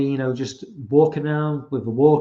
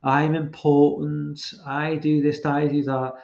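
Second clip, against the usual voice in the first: mock artsy-fartsy thespian, words drawn out; pretentious actor; slower than usual. Host mocking Jared Leto as an artsy-fartsy actor, pretentious. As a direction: lightly send up a self-important actor. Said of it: "one of these really pretentious, artsy-fartsy".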